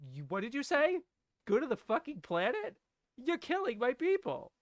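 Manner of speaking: indignant, pitch climbing through the line; upset. Acted. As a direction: throw it back as an appalled challenge. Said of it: "Way more upset sounding. And she's responding like".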